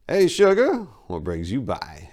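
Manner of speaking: a sleazy dealer sweet-talking at the door; smooth flirt. Acted. Enrico greeting Maria at his door with a sleazy flirt. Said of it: "Enrico finished, mouthing a silent kiss".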